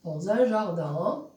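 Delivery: low, drawn-out dictation pace; slow dictation. Shown as a demonstration. Teacher dictates the stage direction to pupils, slow dictation. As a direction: stretch each word out for writing down. Dictating while writing on the board.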